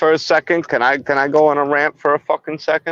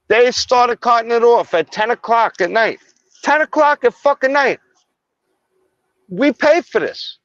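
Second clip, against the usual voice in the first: heated rant, pitched higher; angry rant; 3 semitones higher than usual. Real, not acted. Local venting to cops about the docks, heated. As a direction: vent like a fed-up local. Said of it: "I'm going on a fucking rant".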